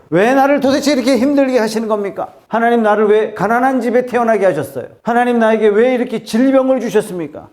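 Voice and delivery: high-pitched, insistent accusing questions; acted protest to God. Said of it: "하나님께 항변하는지 모릅니다". (하나님께 항변하듯 높은 어조로)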